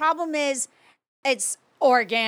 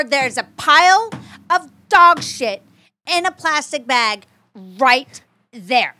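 indignant; 5 dB louder, slower than usual. Real, not acted. Indignant complaint about dog poop.

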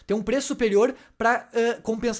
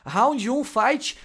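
hammed-up arcade fight call; booming fighting game announcer; 3 semitones higher, 4 dB louder, much slower than usual. (locutor de jogo de luta anunciando o round)

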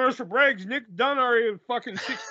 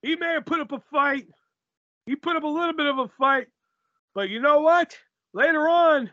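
defiant in-character promo, spaced phrases; wrestler cutting a promo; 4 dB louder than usual. Acted. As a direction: taunt the rival in measured bursts.

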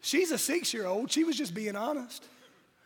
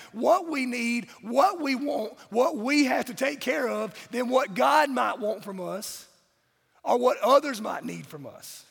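preaching; 4 semitones higher, 5 dB louder than usual. Acted. Preaching to the congregation.

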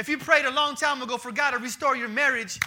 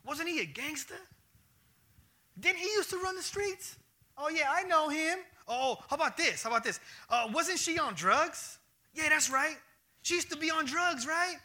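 nosy gossiping neighbor, a bit higher; mock gossip; 4 semitones higher than usual. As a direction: playfully imitate a gossip digging up dirt. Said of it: "Like, for example".

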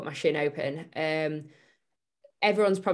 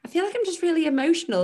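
high and fast, laughing through it; retelling her old self, laughing; laughing confession; 12 semitones higher, 4 dB louder, faster than usual. Retold or imitated. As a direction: giggle it out while admitting it. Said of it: "And I remember just being like".

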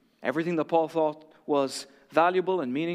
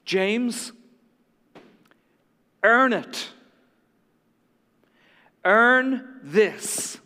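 dying words; 4 semitones higher, 4 dB louder, much slower than usual. Acted. Dying captain's last words.

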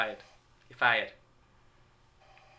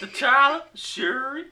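high, put-on African accent; hammed-up African accent; mock African accent; 12 semitones higher, 4 dB louder, much slower than usual. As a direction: call names in a caricatured African accent. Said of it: "didn't know Africans sounded like that".

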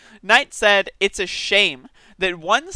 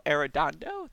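ordinary delivery

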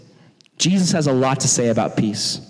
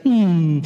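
sleeping contentedly. Acted. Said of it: "He's sleeping on a pillow comfortably".

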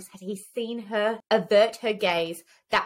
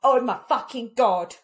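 shocked; 2 semitones higher than usual. Retold or imitated. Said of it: "I remember literally being like".

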